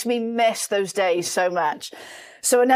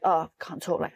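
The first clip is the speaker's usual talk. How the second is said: boastful busy colleague; 4 semitones lower, 7 dB quieter than usual. Retold or imitated.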